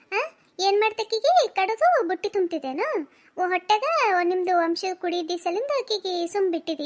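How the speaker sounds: lightly voiced scolding mother; indignant mother. Mother confronts daughter's mother-in-law, indignant scolding. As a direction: tear into the in-law in your daughter's defence.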